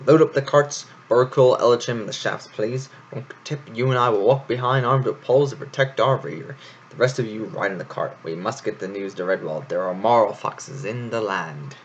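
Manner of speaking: a touch of a commanding leader; ordering. Acted. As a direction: bark out the troop's orders lightly. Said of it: "Florian issued the orders".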